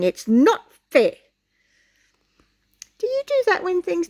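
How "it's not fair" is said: put-on slow, louder childish protest; a hammed-up tantrum line; mock shout. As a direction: stamp it out like a sulking kid. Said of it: "He jumped up and down shouting".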